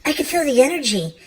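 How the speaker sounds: high, hushed, awed mock lady; awed customer. Woman holding dino dung, high awed. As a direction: marvel at the energy. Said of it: "she was like".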